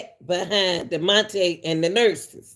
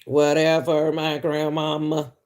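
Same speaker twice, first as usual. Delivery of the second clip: robot voice; 2 semitones lower, slower than usual. Retold or imitated. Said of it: "Now he sounding like a robot".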